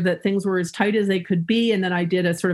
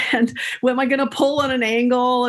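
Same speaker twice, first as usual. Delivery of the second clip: laughing while retelling. Retold or imitated. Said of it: "I was really laughing".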